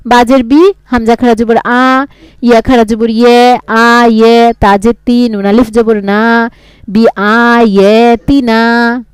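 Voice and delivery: patient teacher's spelling drill; spelling aloud. Shown as a demonstration. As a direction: spell each letter with its vowel mark, then join. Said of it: "এইরকম করে পড়বেন।".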